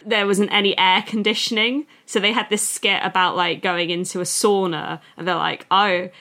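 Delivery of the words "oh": mock Australian accent; bad Australian accent. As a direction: put on a poor Australian accent. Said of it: "this is my bad Australian accent".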